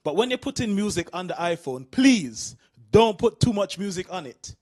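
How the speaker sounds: put-on low, earnest old dad asking a favour; lightly voiced dad asking his son for help; dad's request. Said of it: "he said to me".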